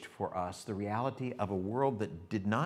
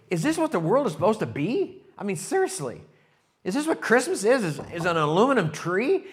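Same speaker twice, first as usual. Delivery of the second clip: mock despairing Charlie Brown; 9 semitones higher, 8 dB louder than usual.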